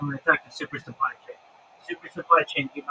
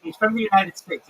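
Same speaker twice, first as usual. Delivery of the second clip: raised, higher-pitched insistent objection; exasperated protest; 6 semitones higher, 6 dB louder than usual. Real, not acted. Streamer tells caller to stop quizzing a guest, exasperated. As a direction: cut in to defend someone from nosy questions.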